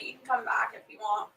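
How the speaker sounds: soft unvoiced whisper. Real, not acted. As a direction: whisper it to one viewer. Soft aside to a viewer.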